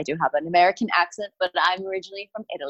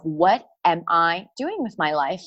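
rising, slowed despairing self-question; a touch of despair at her breaking point; inner voice; 3 semitones higher than usual. Retold or imitated. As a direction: ask yourself in dismay, slowing down. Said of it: "when I said to myself".

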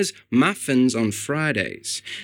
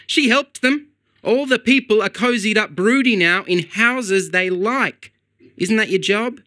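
raised, earnest bird talking to a human; pigeon's own voice; 7 semitones higher than usual. A narrator's reading. Pigeon argues with Barry.

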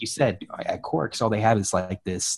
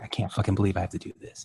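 irritated; 2 semitones lower, 7 dB quieter, faster than usual. Retold or imitated. Co-host voicing an irritated character, quick quiet grumble. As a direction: mutter it softly and fast, mildly irritated. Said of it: "The only more irritated person was Kira".

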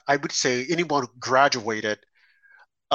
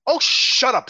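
grinning snake; 9 semitones higher, 5 dB louder than usual. A narrator's reading. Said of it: "said the reptile with a grin".

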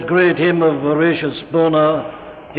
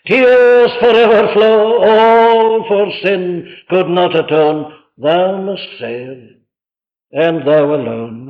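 swelling, drawn-out sermon verse; preacher reciting with fervour; impassioned hymn recitation; slower than usual. Acted. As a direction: declaim the verse, then let it settle.

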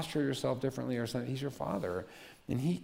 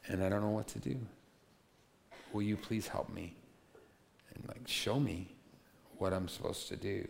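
simple honest prayer; 3 semitones lower, 4 dB quieter than usual. Retold or imitated. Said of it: "I'll give you the short version".

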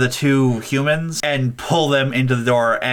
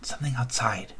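put-on softer, hushed child voice; hushed kid voice; 10 dB quieter than usual. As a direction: murmur it to reassure the others. Kid dismissing the noise.

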